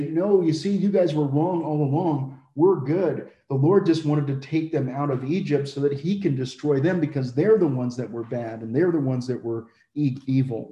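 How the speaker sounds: a hint of a smug Egyptian gloating; mock Egyptian taunt. Preacher imitating Egypt mocking Israel, lightly smug. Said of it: "Egypt would be able to say".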